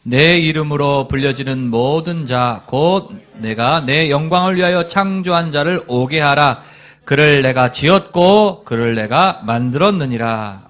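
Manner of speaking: slow, loud, measured recitation with the congregation; solemn unison Bible reading; unison scripture reading. Acted. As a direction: read it together, weighty and slow.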